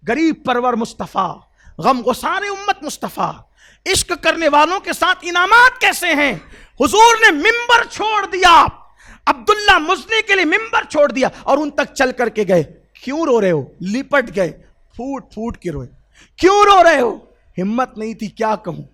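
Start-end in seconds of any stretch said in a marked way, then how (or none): 3.9-12.6 rising to a loud, high preaching shout; fervent preaching. Acted. Preacher crying out to the congregation, louder and higher. 16.4-17.2 much higher and louder, calling out; urgent loud asking. Acted. Prophet calling to weeping Abdullah, loud and high.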